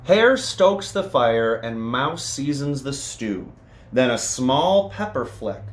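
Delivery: lively read-aloud with bouncy rhythm; storybook reading. A narrator's reading. Reading a picture book to children, lively storytelling. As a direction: read it to the kids with a sing-song lilt.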